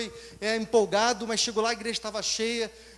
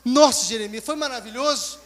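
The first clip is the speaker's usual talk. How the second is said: loud, high, fast ecstatic gushing; tearful joy; 5 semitones higher, 6 dB louder than usual. Retold or imitated. Blessed friend telling Jeremias about the service, ecstatic. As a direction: gush with overwhelmed joy. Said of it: "em lágrimas".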